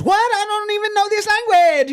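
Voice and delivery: high, put-on mock Asian accent.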